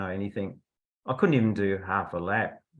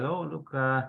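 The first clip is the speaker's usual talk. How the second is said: softly imitated proper accent; quiet, proper-accented official making a complaint; Howard Noble; 3 dB quieter than usual. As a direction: put on a mild, proper accent. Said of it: "in his, uh, proper accent".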